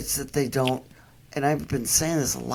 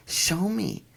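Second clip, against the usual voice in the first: higher, coaxing ask; coaxing the dog; 7 semitones higher than usual. Retold or imitated. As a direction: invite the dog to lead you. Asking the dog to show.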